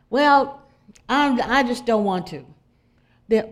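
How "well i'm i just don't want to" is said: stubborn refusal. Retold or imitated. Friend refuses again.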